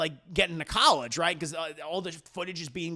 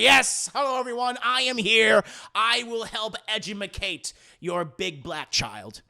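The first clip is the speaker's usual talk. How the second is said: lightly voiced prim teacher; 3 semitones higher, 3 dB louder than usual. Kathy Bates character arrives.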